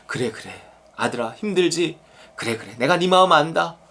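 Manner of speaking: acted fatherly comfort. Preacher voices God comforting a struggling son, tender. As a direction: hush and console like a tender parent.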